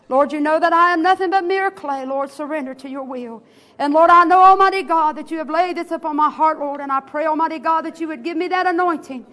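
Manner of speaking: fervent pulpit prayer, rising and falling; earnest church prayer. Acted. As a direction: pray it with heartfelt fervour. Opening prayer before the sermon.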